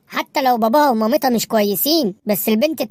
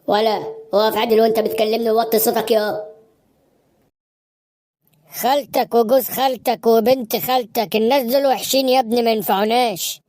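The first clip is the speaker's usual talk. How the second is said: lightly voiced father. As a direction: scold the son like a tired dad. Father scolds son. (أب بيزعق لابنه بصوت أوطى شوية)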